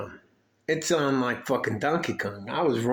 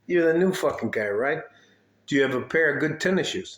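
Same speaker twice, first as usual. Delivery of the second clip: gruff sergeant; 3 semitones higher than usual. Retold or imitated. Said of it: "This is how this fucking guy introduced me".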